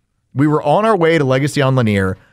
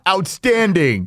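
Robert Loggia; 3 semitones higher, much slower than usual. Retold or imitated. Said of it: "Robert Loggia in Over the Top".

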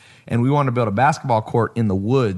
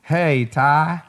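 higher, lightly country neighbour voice; country accent imitation; 3 semitones higher, slower than usual. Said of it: "he used to talk like this".

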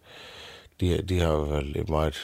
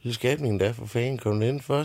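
dronningen; 6 semitones higher than usual. Acted. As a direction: coo it out like a fussing queen. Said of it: "siger hun". (dronningen kurrer højt til den lille pige)

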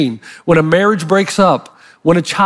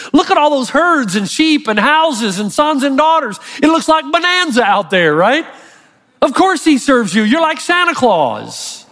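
mocking Satan; 6 semitones higher than usual. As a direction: crow about Job's riches to God, mocking. Satan mocking God about Job.

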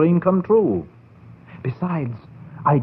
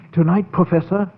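grand vow; 5 semitones higher, 4 dB louder than usual. Acted. Vows to raise the dead.

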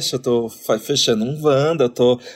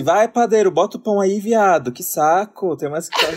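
mock-impatient customer, pitched up; rude customer; 5 semitones higher than usual. Rude customer ordering the baker to hand over bread, fed up. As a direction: play an exasperated, rude bakery regular.

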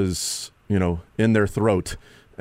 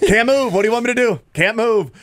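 much higher imitated pleading; mock protest; 12 semitones higher, 4 dB louder than usual. Host mimicking the quarterback who can't move, high mock protest. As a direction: play the helpless player, pitched way up.

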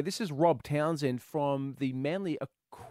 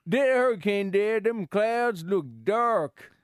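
slow, lightly put-on American southern accent; slower than usual. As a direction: drag out dark clouds in a light southern accent. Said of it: "how's your southern accent there".

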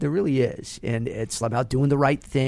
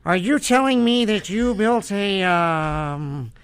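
Jay Baruchel as Marty McFly; 3 semitones higher, slower than usual. Acted. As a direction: stammer in disbelief as young Marty. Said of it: "It'll be Jay Baruchel and is Marty McFly".

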